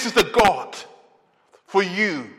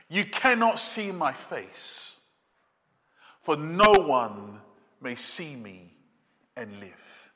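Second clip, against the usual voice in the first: slow and much softer, fading almost to nothing; hushed awe; 7 semitones lower, 5 dB quieter than usual. Acted. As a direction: let God's warning sink to a near silence. God's words, hushed in awe.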